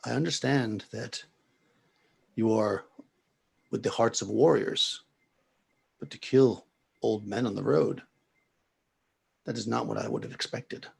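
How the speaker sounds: slow, measured reproach, lightly acted; lightly voiced serene old priest; calm old man. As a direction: speak calmly, leaving pauses between phrases. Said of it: "he calmly says".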